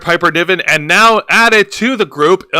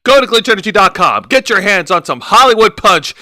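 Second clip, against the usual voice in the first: ad read. Acted. Promo code pitch.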